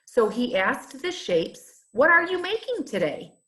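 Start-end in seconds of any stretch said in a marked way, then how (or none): 1.9-3.3 higher, quicker hopeful ask; small shape's eager question; shy eager question. Acted. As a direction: ask hopefully, a bit rushed. Shy Snippet asks the shapes.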